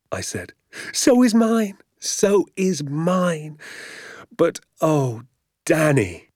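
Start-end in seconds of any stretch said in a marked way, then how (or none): 0.9-3.6 high, excited agreement, slowing on the repeat; breathless elation. A narrator's reading. Father sharing his son's thrill, breathless elation. Father elated, heart thumping. 4.4-6.3 high, delighted exclamation; joyful cry. A narrator's reading. Father to son on the road home, joyful cry. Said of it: "he cried".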